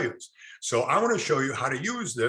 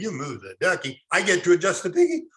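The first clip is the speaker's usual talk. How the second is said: Texas drawl; 3 semitones higher than usual. Retold or imitated. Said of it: "Ducky was like three syllables".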